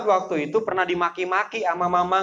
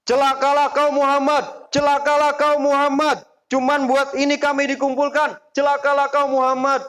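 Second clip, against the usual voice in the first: much higher, louder raging curse; furious curse; 10 semitones higher, 3 dB louder than usual. Retold or imitated. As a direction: roar the curse at Muhammad. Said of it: "Abu Lahab pun begitu". (Abu Lahab memaki Muhammad dengan marah)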